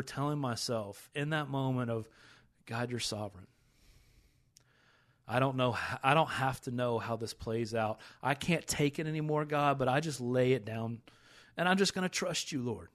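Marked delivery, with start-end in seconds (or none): 2.7-12.9 tearful. Real, not acted. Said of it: "I'm gonna get emotional".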